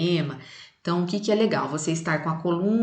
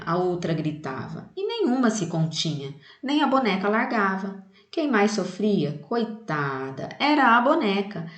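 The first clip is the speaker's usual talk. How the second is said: livelier recital with more rhythm and intonation; expressive poem recital; 3 semitones higher than usual. Shown as a demonstration. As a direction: show the class the musical rhythm of the poem. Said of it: "Por exemplo, olha". (declamação expressiva do poema)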